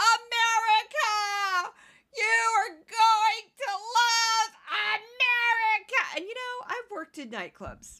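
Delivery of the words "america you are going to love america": mock very slow, stretched-out scream, pitched up. Imitating how a man's fiancee screams in speeches, retell the scream. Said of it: "often scream".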